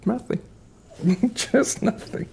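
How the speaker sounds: small high dog voice breaking into a laugh; voicing the dog. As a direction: answer for the pup, then crack up.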